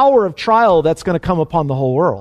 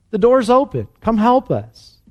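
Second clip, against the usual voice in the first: pleading call; 4 semitones higher than usual. Retold or imitated. Preacher voicing people who need the church, pleading. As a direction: urge them over with a high call.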